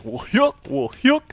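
high, loud sinister dummy voice; creepy Dennis dummy. Retold or imitated. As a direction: gloat like a possessed puppet. Evil Dennis dummy speaks.

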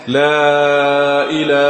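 sung لا إله with the alif of إله held far too long; exaggerated adhan madd; overlong madd. Shown as a demonstration. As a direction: drag out the a of إله in a slow chant. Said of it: "بيمد طبعًا مد زائد جدًا".

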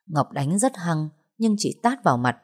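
normal talking voice

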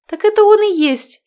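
high, loud giggly cry; giggling exclaim. Acted. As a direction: giggle it out, delighted. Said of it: "хихикнула женщина". (хихикая, высоко и громко)

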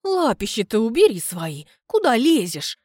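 a woman fending off groping hands, hoarse; hoarse rebuke. Acted. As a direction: rasp at him to keep his hands off. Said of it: "как хрипит Людмила".

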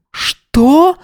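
very high startled cry; shocked. A narrator's reading. Yana shocked by the prison threat, very high cry. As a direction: jump at the news.

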